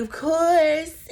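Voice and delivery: high, laughing "of course"; a sly laughing brush-off; laughing mock agreement. Imitating Heather's laughing reply to being paired up. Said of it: "And Heather's like".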